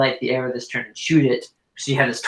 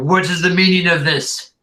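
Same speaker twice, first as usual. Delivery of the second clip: yelling; 5 semitones higher, 4 dB louder than usual. Acted. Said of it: "yells out to you".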